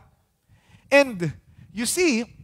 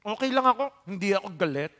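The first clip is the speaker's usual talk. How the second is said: softer, understated denial of anger; mock denied anger; 7 dB quieter, much faster than usual. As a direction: act out someone quietly insisting they're fine. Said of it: "hindi sumisigaw".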